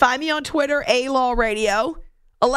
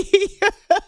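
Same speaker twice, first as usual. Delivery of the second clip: short giggle at himself; amused laugh; 9 semitones higher, 4 dB louder than usual. Real, not acted. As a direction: laugh off the hiccup. Laughs after hiccup joke.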